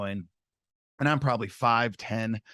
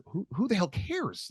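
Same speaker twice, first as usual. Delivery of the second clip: dismissive; 8 semitones higher, 4 dB quieter, slower than usual. Retold or imitated. Shrugging off the praise.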